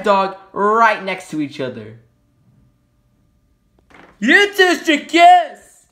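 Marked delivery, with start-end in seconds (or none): 4.2-5.9 high, loud, slow teasing call; sing-song matchmaking taunt; hammed-up movie line teasing the cat and dog; movie quote. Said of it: "movie reference".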